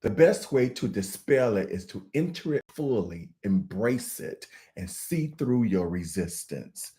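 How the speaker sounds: measured read-aloud of an opening quote. Acted. Host opens the session for viewers with a quotation, measured reading. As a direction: read it out as prepared text, trailing down at the end.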